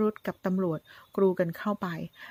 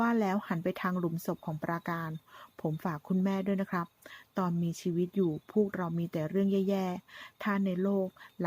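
tender farewell. Acted. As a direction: speak gently, as if she can still hear. Son at mother's grave.

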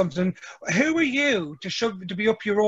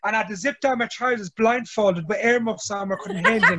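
laughing while telling. Real, not acted. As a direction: giggle through the story. Laughing retelling toilet story.

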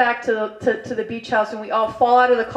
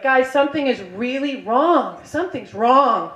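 slow, drawn-out retold alarm; slow warning; slower than usual. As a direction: stretch it out to alert your friends. Warning friends about the smell.

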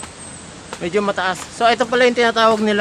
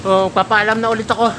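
panting while climbing; out of breath; 4 semitones higher than usual. Real, not acted. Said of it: "Medyo hinihingal na ako".

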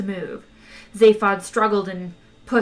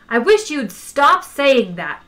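loud, high, slowed-down shout; exasperated shout; 5 semitones higher, 7 dB louder, slower than usual. A narrator's reading. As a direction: shout it in exasperation, stretching the words. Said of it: "shouted Ford".

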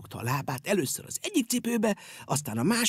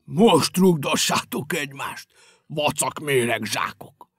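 spiteful; 3 semitones lower, 5 dB louder, slower than usual. Acted. Dumps shoes in bin angrily.

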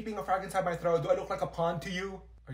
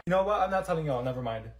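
usual speaking voice

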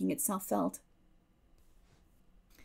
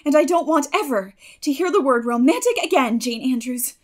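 spirited; 3 semitones higher, 9 dB louder than usual. A narrator's reading. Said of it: "a momentary return of her old spirit".

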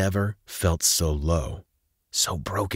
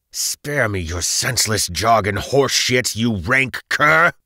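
raised, spiteful retort slowing on the insult; defiant shout; 5 semitones higher, 5 dB louder than usual. A narrator's reading. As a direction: spit back defiance at your captor. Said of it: "he shouted defiant".

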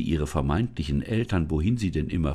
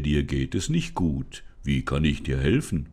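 forest spirit; 2 semitones lower than usual. Acted. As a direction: speak as a calm old forest spirit.

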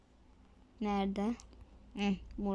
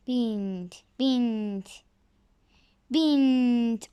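building call; 6 dB louder, much slower than usual. Real, not acted. Urging character to mount.

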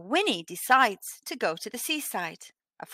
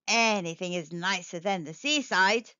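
grumpy cat thought; 3 semitones lower than usual. Acted. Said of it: "thought Wilbur".

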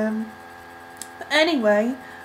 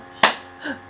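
hiccup; 5 semitones higher than usual. Real, not acted. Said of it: "I hiccuped all of a sudden".

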